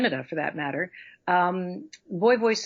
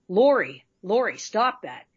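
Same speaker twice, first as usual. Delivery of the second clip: put-on low boy voice. Shown as a demonstration. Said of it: "more down here".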